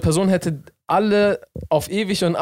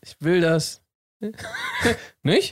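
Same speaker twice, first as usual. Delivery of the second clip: "will" stressed, detached high rising "nicht"; questioning tag NICHT; 6 semitones higher, slower than usual. Shown as a demonstration. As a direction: make "nicht" ask for agreement. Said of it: "Kannst du nicht als so".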